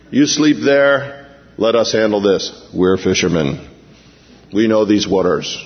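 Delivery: lightly voiced boastful fisherman; cocky fishermen. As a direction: act the know-it-all sailor.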